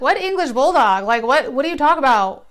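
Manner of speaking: incredulous demand. Retold or imitated. Demanding answers from ex.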